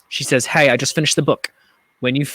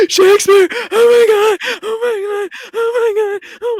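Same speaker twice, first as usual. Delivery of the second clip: high, loud gasping squeals; excited shriek; 8 dB louder, slower than usual. Retold or imitated. Friend on the phone squealing with excitement. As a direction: squeal with delight at the friend's call.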